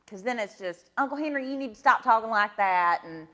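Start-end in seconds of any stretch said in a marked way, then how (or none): 1.0-3.0 quick Satsuma, Alabama twang; Satsuma accent. Shown as a demonstration. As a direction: talk like Satsuma kin on the phone. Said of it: "you can really hear the Satsuma come out".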